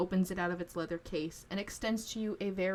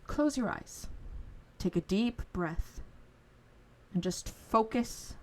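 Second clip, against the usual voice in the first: guiding calmly. Acted. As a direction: talk the boy gently into focus. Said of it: "He goes".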